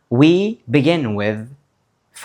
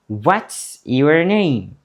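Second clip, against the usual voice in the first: slow repeat; 3 semitones higher, slower than usual. Shown as a demonstration.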